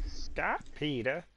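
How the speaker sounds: Stewie voice. Retold or imitated. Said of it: "Stewie's accent".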